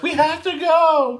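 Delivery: high, slow urgent film voice; imitated movie cat, loud and drawn-out; Sally Field. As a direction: plead urgently, hammed-up and high. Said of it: "And Sally Field's like".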